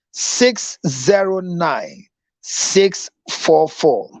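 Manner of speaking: slow, deliberate digits; slow number read again. Shown as a demonstration. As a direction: say each digit slowly and clearly. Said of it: "Your number again".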